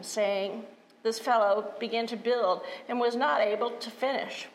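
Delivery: scripture reading. Acted. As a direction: read the gospel with weight. Reads the gospel.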